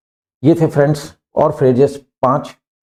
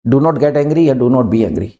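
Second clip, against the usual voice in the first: slow teaching read; much slower than usual. Shown as a demonstration. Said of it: "हम कहते हैं यार नाराज मत हो".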